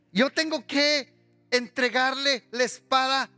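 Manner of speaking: preaching. Acted. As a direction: stretch each key phrase for the congregation. Preaches with force. (predicación enfática, pausada y en tono alto)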